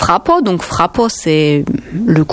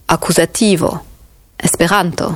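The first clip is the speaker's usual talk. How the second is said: "accusativo" stressed on "vo"-before syllable, "esperanto" on "ran"; stress on the second-last syllable. Shown as a demonstration. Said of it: "accent tonique ... avant-dernière syllabe".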